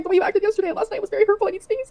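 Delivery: high, tearful reading; real crying. Real, not acted. Reading out own message asking for space, crying.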